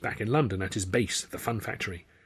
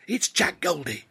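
hushed backstage voices; 8 semitones higher than usual. A narrator's reading. Hushed wings exchange.

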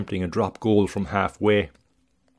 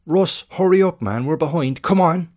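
high, loud coach yelling from the sideline; booming coach shout; 8 semitones higher, 5 dB louder than usual. A narrator's reading. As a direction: bellow it across the pitch, urgent. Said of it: "The coach's voice booms from the pitch side".

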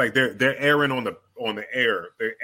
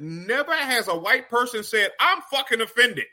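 higher-pitched put-on white guy; white person voice; 7 semitones higher than usual. Comic imitating an unoffended white person, white person voice. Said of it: "Even when I do the white person voice".

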